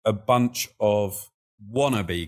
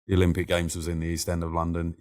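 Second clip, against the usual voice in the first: the same sentence, rattled off faster; quick retake; faster than usual. Shown as a demonstration. Repeating it to himself, quicker. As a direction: hurry through the line a second time. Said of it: "there you go".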